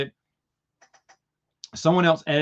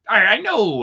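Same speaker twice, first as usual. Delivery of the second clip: higher, louder guilty admission; loud high-pitched sheepish line; sheepish pirate; 7 semitones higher, 6 dB louder than usual. Retold or imitated. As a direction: own up awkwardly. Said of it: "He was like".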